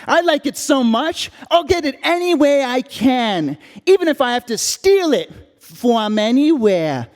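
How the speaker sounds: put-on young boy proud of his sneaky habit; five-year-old. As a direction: tell it like a small child confessing. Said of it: "and I'm five years old".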